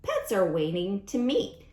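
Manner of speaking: lively picture-book read-aloud; sing-song storytime rhyme; reading to children. A narrator's reading. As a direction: read the rhymes brightly to a class.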